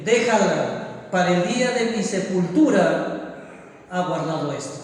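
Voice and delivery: slowly, solemnly quote Jesus; slow solemn reading. Retold or imitated. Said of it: "el mismo versículo siete".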